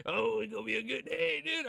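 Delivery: giddy, keyed-up anticipation; can barely wait for it; excited. Real, not acted. Streamer hyped before the trailer starts.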